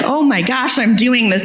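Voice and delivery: quick, bright burst of mock glee; like you just pulled it off; excited thrill. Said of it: "One minute you're like".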